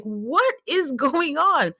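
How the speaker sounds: high, drawn-out mock despair; exasperated disbelief. Viewer at wits' end with the couple, exasperated disbelief. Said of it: "I'm screaming into my pillow".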